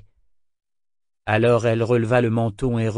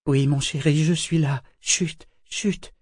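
higher-pitched tender reassurance, ending in a hush; soothing; 4 semitones higher, slower than usual. A narrator's reading. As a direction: soothe a wounded lover. Soothing a dying lover.

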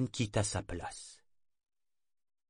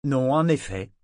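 affable; 4 semitones higher, 7 dB louder than usual. A narrator's reading. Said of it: "d'un ton affable".

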